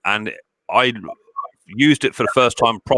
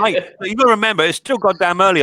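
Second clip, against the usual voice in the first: laughing; 11 semitones higher, 3 dB louder than usual. Real, not acted. Laughing at his own mix-up.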